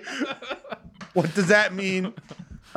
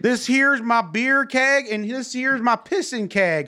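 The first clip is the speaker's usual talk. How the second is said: put-on slow, drawn-out country accent; country hick accent; 2 semitones higher, slower than usual. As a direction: play a backwoods country moonshiner. Country hick bit after moonshine talk.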